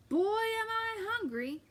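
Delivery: slow, loud, high hammed-up giant; hungry giant. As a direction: stretch out the hunger. Giant enters kitchen.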